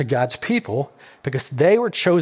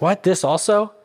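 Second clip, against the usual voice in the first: mock exasperated disbelief, pitch lifting on the question; imitating an exasperated leader; 4 semitones higher than usual. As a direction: act out fed-up surprise. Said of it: "like, exasperated. He's like".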